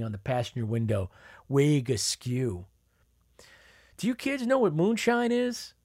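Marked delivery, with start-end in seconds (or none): 4.0-5.7 put-on much higher, sly question to the kids; teasing aunt. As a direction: lure the kids in with a secret.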